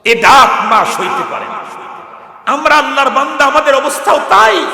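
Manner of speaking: high, loud, impassioned sermon cry; full-force preaching. Acted. The preacher cries to the crowd about God's mercy, impassioned. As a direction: preach it at the top of your voice.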